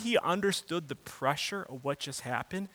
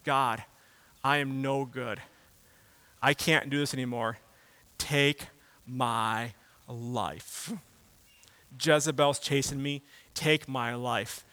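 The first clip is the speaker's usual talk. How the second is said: despairing plea; 3 semitones lower, slower than usual. Retold or imitated. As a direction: let the plea sink low and drag. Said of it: "He says".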